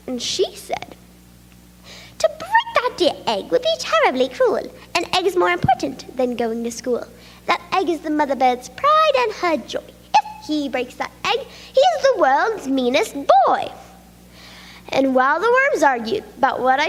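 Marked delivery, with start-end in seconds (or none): 2.2-13.7 shouting back. Acted. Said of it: "the wife of the worm shouted back".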